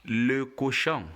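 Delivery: "le cochon" as luh ko-shon, nasal ending; French model pronunciation. Shown as a demonstration. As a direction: model "le cochon" clearly for a learner.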